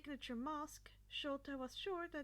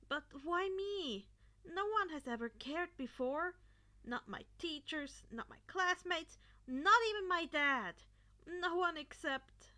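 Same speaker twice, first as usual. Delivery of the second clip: put-on higher and louder, hurt kid on the edge of tears; voice cracking; 5 semitones higher, 8 dB louder than usual. A narrator's reading. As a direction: let it break as the hurt pours out. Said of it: "his voice cracked".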